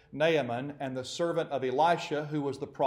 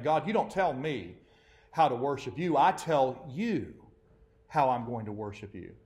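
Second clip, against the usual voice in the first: defiant. Retold or imitated. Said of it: "they don't say it like that".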